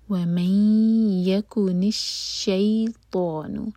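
وَمَنْ يَكُنِ with the ن merged into ي through the nose, held two seconds; nasal glide from وَمَنْ into يَكُنِ, slow; merged nasal noon. Shown as a demonstration. Teacher shows the merge in وَمَنْ يَكُنِ, slow. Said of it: "شَيْ مد لین".

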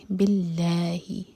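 باللہ with a thin light lam, lips spread. Shown as a demonstration. Teacher models the light lam slowly. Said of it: "ہونٹوں کو پھیلا کر پڑھیں گے".

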